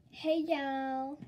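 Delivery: put-on Southern accent. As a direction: put on a mild mock Southern greeting. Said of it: "Southern was like".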